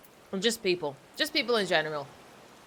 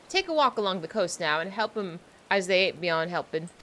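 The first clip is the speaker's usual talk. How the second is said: put-on pirate accent. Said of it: "I'm trying to sound like a pirate".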